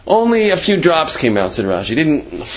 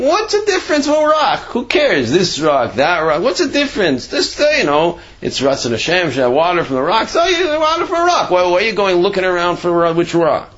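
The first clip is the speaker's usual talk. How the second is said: scoffing complainers. Retold or imitated. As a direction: play the grumbling people who shrug off which rock. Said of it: "people were saying".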